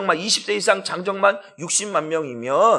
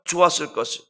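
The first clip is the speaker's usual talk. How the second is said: congregational reading; 3 dB louder than usual. Shown as a demonstration. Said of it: "읽어보시죠".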